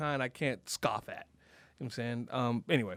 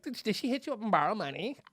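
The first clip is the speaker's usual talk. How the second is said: slightly higher, lilting mock women's voice; gossiping sorority women; 4 semitones higher than usual. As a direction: lightly mimic gossiping women with a rising question. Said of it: "they all talk like this".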